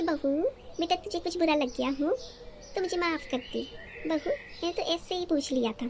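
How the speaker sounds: mocking mother-in-law. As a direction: parrot her fake-sweet apology back at her. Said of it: "ये नौटंकी तो मेरे सामने बिल्कुल मत करिए". (सास की नकली मिठास की हल्की नकल)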